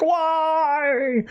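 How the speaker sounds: mock scream. Anton damned back to hell, mock high-pitched scream. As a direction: wail it out like someone dragged to hell. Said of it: "as he's screaming".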